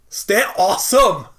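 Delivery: worst fake Scottish accent, loud and high. Three hosts signing off together, one says the farewell in a bad Scottish accent. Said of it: "That was the worst Scottish accent".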